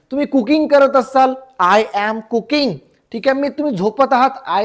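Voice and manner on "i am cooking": slow, measured repeat for learners; slow teaching model. Shown as a demonstration. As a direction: model the question word by word. Teacher models the English answer. (शिकवण्यासाठी सावकाश)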